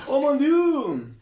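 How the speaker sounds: high, slow French chef gasp. Acted. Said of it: "fingiremos que eso no pasó". (chef francés exagerado)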